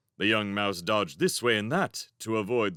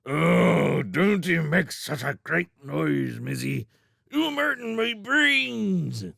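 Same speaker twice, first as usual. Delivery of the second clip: whiny hedgehog voice; 7 semitones higher, 4 dB louder, slower than usual. Acted. Hedgehog Grum complains of noise.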